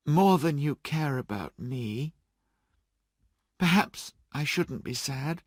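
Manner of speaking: a lightly voiced young fiancée letting go sadly; lightly voiced young woman, hurt but calm. Belle voiced by reader.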